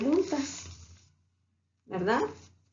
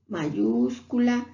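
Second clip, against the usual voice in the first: slow "mayúscula" with the last a held; drawn-out mayúscula; slower than usual. Shown as a demonstration. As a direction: stretch "mayúscula" for the class. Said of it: "esa regla se vuelve a aplicar". (mayúscula lenta y alargada)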